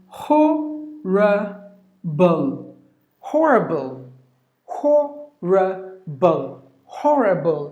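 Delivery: HORRIBLE broken as "ho, ruh, bul", then joined; model pronunciation. Shown as a demonstration. Teacher modelling horrible for learners, slow careful pronunciation. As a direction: sound out HORRIBLE slowly with a rounded O. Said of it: "That's how you have to pronounce".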